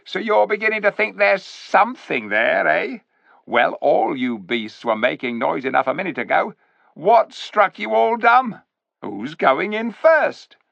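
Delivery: high, loud sneering ape voice; sly ape. A narrator's reading. Ape sneering at the clever dwarfs, high and loud. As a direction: talk down to the dwarfs like a smug ape.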